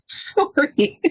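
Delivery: exaggerated Canadian "sorry", SORE-ee, through a laugh; imitated Canadian accent. Laughing at the standout words, imitated Canadian accent. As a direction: stretch "sorry" with a round Canadian o. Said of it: "those two words are the standout words".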